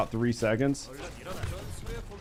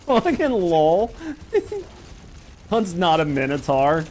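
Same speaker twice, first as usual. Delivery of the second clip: laughing; 4 semitones higher than usual. Real, not acted. Laughing at satyr idea.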